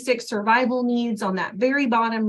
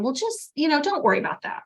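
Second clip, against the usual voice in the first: quick, higher, dismissive imitation; mock brush-off; 5 semitones higher, faster than usual. Volunteer brushing off a worried kid, fast mock dismissive. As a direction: rattle it off, higher, like it's nothing. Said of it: "be very careful to tell them".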